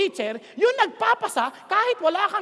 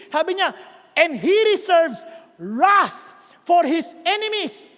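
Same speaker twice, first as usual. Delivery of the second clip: emphatic scripture reading; 2 semitones lower, slower than usual. Acted. Reads Nahum aloud with force.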